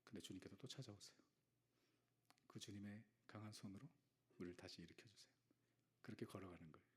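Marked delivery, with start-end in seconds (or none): 6.0-6.9 softer, hushed promise; whisper. Acted. Pastor comforting the congregation, whispered. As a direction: whisper it close. Intimate closing of the message.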